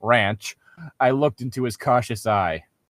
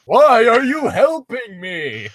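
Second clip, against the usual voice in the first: higher, slow questioning creature; a suspicious beast asking why; griffin voice; 10 semitones higher, 5 dB louder, slower than usual. Acted. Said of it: "Dalmar questioned".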